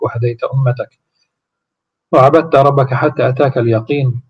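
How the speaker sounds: reverent devotional testimony, measured pace; prayerful recitation. Acted. Visitor bearing witness before the Prophet, solemn recitation.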